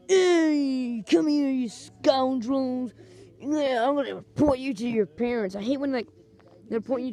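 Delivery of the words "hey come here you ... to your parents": mock scolding shout at kids; a lightly acted grumpy man yelling; angry man. Man catching kids spitting, mock angry scold. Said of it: "this guy who was like".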